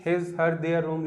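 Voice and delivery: slow, word by word reading; slow dictation. Shown as a demonstration. Teacher reads the example sentence slowly to class. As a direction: read each word out slowly. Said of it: "तो".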